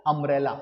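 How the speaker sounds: अम्ब्रेला with a short open "a" at the start, as in "up"; अम्ब्रेला clearly opened on "a"; correct umbrella. Shown as a demonstration. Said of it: "उम्ब्रेला नहीं है".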